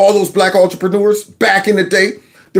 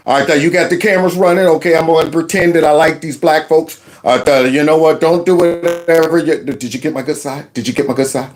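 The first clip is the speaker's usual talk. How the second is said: mocking a Democrat. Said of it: "like Democrats do".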